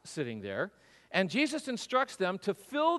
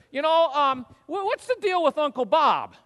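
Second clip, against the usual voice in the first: put-on curious kid; 8 semitones higher, 6 dB louder than usual. Kid asking in the car.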